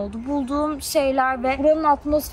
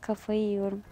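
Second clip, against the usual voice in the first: lower, softer repeat to himself; quiet mutter; 5 semitones lower, 8 dB quieter than usual. Real, not acted. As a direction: mutter it under the breath.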